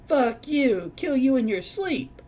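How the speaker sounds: mock furious holler; imitated shouting. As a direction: yell it after him like an angry redneck woman. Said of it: "could hear her shouting more".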